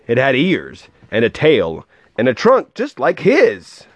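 lively, rhythmic read-aloud; storybook voice with a measured bounce; story narration. A narrator's reading. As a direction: read a rhyming picture book to a child.

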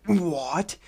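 stunned rising what; shocked what. Retold or imitated. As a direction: blurt it out in disbelief. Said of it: "I was like".

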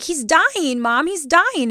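high-pitched mock wail to mom; retold childish anguish; imitating distraught child. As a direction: plead like a heartbroken kid. Upset child pleading with mom.

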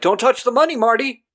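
high, loud shout of warning; yelling conscience. Retold or imitated. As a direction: yell it at him to stop. Conscience yells at Marty.

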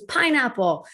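put-on high, bright child's "Pineapple"; kid voice. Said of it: "She goes".

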